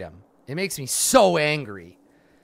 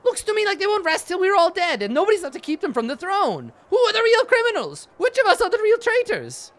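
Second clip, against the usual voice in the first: much higher, louder rabble-rousing voice; loud appeal; 3 dB louder than usual. Acted. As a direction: whip up the crowd from up high. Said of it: "speaking loudly".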